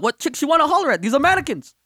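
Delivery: high-pitched, baffled questioning; retold baffled objection; mock incredulous. Retold disbelief at customer's request.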